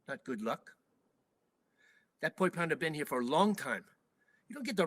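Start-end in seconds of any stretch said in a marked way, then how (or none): 0.1-0.7 stern rebuke. Retold or imitated. Bus driver rebukes him.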